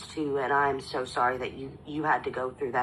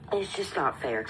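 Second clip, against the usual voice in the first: tearful. Real, not acted. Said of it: "sorry, I'm trying not to cry".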